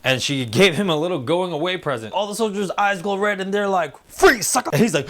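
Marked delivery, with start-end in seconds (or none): 4.1-4.7 high, loud comic threat; mock shouted command. Soldiers turning on their commander, high mock shout.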